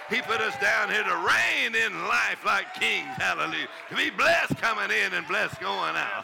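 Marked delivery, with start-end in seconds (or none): 0.1-3.1 preaching shout. Real, not acted.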